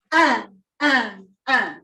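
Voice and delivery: "And, and, and" each hit hard and short; punched "and". Shown as a demonstration. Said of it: "Really punch those".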